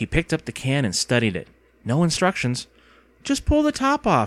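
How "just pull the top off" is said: impatient voice, very high pitch. Narrator reading her line to a companion holding the can: impatient. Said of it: "she said impatiently".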